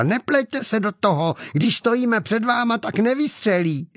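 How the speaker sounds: high-pitched insistent scolding; sharp rebuke. A narrator's reading. Woman shielding a man silences him, trying to sound convincing. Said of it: "Miloše okřikla".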